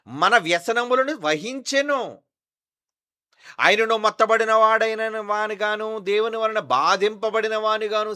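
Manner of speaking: preached high and loud, slowly, verse by verse; loud scripture reading. Acted. Pastor reading Isaiah to his congregation, loud preaching. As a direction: proclaim each line to the back row.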